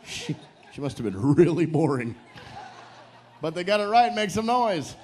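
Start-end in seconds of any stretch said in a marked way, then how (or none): 3.4-4.9 high, lively game show cheer; rally the crowd, pitched up high; raised, excited host's call; calling for applause. Real, not acted. Host calls for applause.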